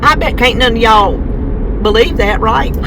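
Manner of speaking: mock-doubting remark to the audience; sarcastic. Real, not acted. Vlogger ribs viewers about her potty mouth, sarcastic. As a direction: tease them with light sarcasm. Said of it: "That was sarcasm".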